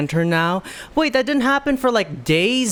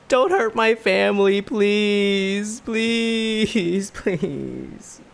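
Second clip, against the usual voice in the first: imitated tearful plea; 4 semitones higher, much slower than usual. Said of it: "Do you hear this?".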